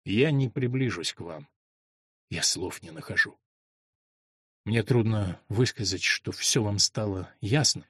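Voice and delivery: a broken servant confessing his love to the queen; soft, heartfelt voice. A narrator's reading. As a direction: pour out your heart softly to the queen. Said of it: "проникновенным и тихим голосом".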